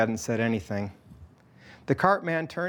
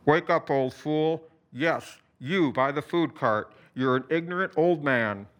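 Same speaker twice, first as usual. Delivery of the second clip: through a bullhorn; 2 semitones higher than usual. A narrator's reading. Alex taunts the cart man through his bullhorn, booming. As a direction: boom it through a bullhorn at the vendor. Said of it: "boomed through it".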